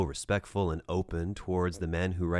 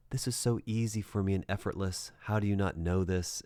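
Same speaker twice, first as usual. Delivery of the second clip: condescending tone; 3 semitones higher than usual. Retold or imitated. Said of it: "that condescending tone".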